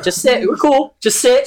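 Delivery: high, coaxing voice to a puppy; mock soothing monster. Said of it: "It's like".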